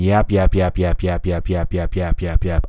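rapid monotonous string of yaps; mocking chatter. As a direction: rattle it off like endless blabber. Mimics endless phone chatter.

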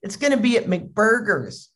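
lightly acted eager kid request; lightly voiced kid. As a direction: imitate a child asking permission. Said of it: "a kid comes home and he goes".

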